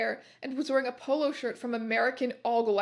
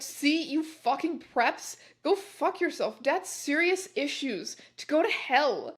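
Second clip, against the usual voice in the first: higher-pitched mock-indignant rant; mild ranting; 3 semitones higher than usual. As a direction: tell off the critics with exaggerated petulance. Angry author's note to flamers.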